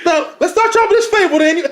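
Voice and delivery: lightly hammed-up sermon delivery; half-joking, high pulpit voice; mock preacher voice. Man mocking his rival, in a put-on preacher tone. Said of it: "if I sound like".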